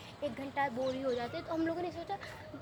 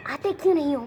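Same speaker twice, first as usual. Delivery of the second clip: teacher demanding; 8 dB louder than usual. Retold or imitated. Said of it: "हाँ तो कहती".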